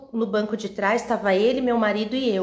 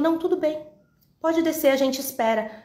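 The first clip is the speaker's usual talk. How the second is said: calmo; 5 semitones higher than usual. Retold or imitated. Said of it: "Calmo, gente".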